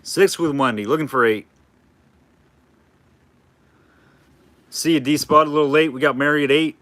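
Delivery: light auctioneer bid calling. Shown as a demonstration. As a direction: rattle off bids like an auctioneer. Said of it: "That's the best auctioneer voice I can do".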